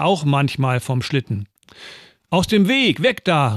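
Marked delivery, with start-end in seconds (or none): 2.3-3.5 mock yell from a sled; boy on a sled shouting at a child to move, half-voiced; calling out. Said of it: "rief ich".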